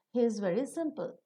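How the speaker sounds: "simple" dropping at the close; falling tone on simple. Shown as a demonstration. Teacher finishes the example, falling on "simple". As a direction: let "simple" fall to a full stop. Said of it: "simple will take the falling tone".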